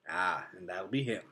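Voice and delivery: bright, bouncy beaver; a can-do old beaver; cheerful beaver voice. A narrator's reading. Beaver character voice.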